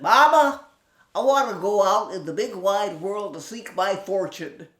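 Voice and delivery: high, loud little piglet voice; a bold young pig begging his mama; high excited piglet; eager little pig. Acted.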